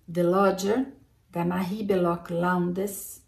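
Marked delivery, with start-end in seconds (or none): 1.4-3.2 "Marie Belloc Lowndes" sounded out slowly and carefully; careful, slowed-down attempt at "Marie Belloc Lowndes"; tentative pronunciation. Real, not acted. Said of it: "espero que seja assim a pronúncia".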